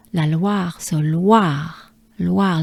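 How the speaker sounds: Loire as "lwa" plus breathed r; French Loire. Shown as a demonstration. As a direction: model La Loire for the learner. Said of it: "so Loire is the name of".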